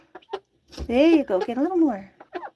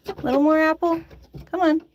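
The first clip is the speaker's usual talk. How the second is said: high, lifted coaxing voice; coaxing a pet; 7 semitones higher, 5 dB louder than usual. Real, not acted. Owner urging chicken Apple to drink, coaxing. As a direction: coax up high and louder, inviting.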